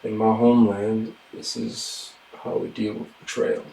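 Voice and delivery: cold quiet. Acted. Vow of vengeance.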